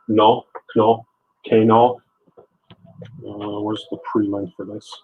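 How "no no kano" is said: sounding out Kano in tries, "no, no, Kano"; unsure attempt at saying Kano; tentative pronunciation. Real, not acted. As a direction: feel your way into the unfamiliar name Kano. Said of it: "I'm sure I'm gonna mispronounce this".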